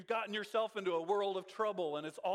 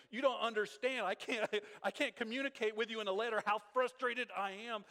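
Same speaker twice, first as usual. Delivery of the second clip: higher, louder frustrated plea; imitating an exasperated apostle; Paul can't get his frustration across in a letter; 5 semitones higher, 4 dB louder than usual. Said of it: "He's like".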